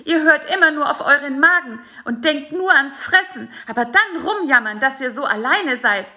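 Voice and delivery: high, loud, furious scolding; angry scolding. A narrator's reading. Fly Bisi rants at spider Karl-Heinz, high and furious. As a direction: berate the spider for betraying him. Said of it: "schimpfte er".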